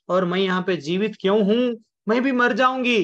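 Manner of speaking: acted despair, pitch rising to the last words; distraught wife. Wife hears her husband is dead, distraught.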